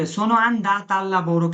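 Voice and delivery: very slow, careful example sentence; teacher's slow demo line; slow example, female form. Shown as a demonstration. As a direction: spell out the female form slowly. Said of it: "মেয়ে বললে কি বলবে".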